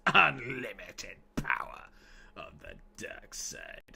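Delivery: slow, fading to a whisper; Palpatine impression. Streamer doing a slow Sith quote, fading out. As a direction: rasp it out like a mad emperor. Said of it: "doing Star Wars impressions".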